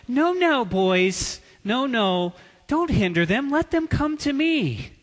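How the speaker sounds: a hint of a sugary, sweet Jesus, high on the first no; lightly mock the fairy-tale Jesus; mock twinkly gentle Jesus. Preacher mocking the sweet storybook Jesus, light sing-song. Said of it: "fairy dust filled Jesus".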